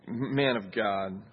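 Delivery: slow sneering "Man of God"; mocking. Shown as a demonstration. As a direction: drag it out with scorn. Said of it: "the kind of mocking tone".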